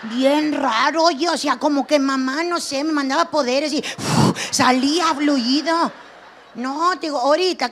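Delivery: ordinary delivery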